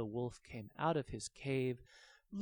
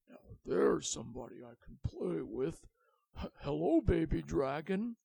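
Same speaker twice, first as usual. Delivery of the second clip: louder, hesitant greeting; hopeful dragon; 3 semitones higher, 6 dB louder than usual. Acted. The dragon greeting the baby dragon, hopeful and shy. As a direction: stammer a hopeful hello.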